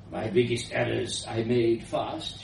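lightly voiced old scientist with an accent; elderly foreign woman. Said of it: "she continued".

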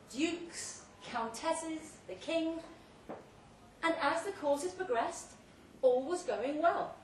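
booming tale told through a loud hailer; grand loud speech. Acted. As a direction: hold forth like a host at a banquet. Speech to guests via loud hailer.

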